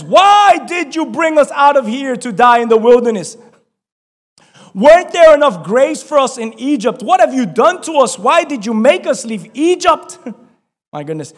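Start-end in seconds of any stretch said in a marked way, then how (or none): 0.0-10.2 panicked complaint. Acted. Israelites panicking at Moses.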